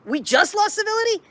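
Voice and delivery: high, disbelieving rhetorical question; pundit scoffing at claims civility was just lost; incredulous. Real, not acted. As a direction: scoff at the very idea.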